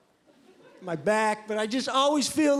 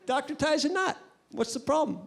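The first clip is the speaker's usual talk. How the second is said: friend shrugging it off; 4 semitones higher than usual. Retold or imitated. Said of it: "And he's like".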